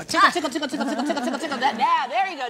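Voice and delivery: high, loud playful tickling voice; giggly tickle attack. Acted. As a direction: squeal it like tickling a baby. Host tickling to make her smile.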